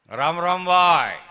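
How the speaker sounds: loud, drawn-out village hello; big slow greeting call. Acted. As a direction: call out heartily, stretching the last word. Acted greeting called out to someone.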